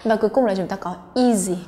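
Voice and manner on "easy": "easy" opening on a long ee; long ee vowel. Shown as a demonstration. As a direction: stretch the first vowel of "easy". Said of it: "cũng là âm y dài".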